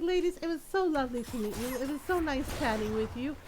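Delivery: a light put-on sweetness switched on for guests; sweet polite mom. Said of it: "all sweet and nice and polite again".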